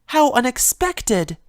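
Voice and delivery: slow, high, dry mock surprise; sarcastic. Fluttershy teases Discord for skipping a meeting, slow and sarcastic. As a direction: tease him with fake astonishment. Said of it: "Fluttershy replied sarcastically".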